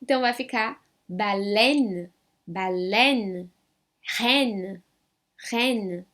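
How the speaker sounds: "baleine" and "reine" with open è, no final e; French model words. Shown as a demonstration. Teacher models "baleine" and "reine" in French. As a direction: say "baleine" ba-lèn, "reine" rèn. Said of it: "som de E".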